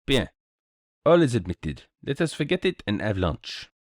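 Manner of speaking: lightly voiced French-speaking detective; a hint of a courteous Poirot-style accent; Belgian detective, consoling. Detective soothes his friend and proposes lunch, lightly accented.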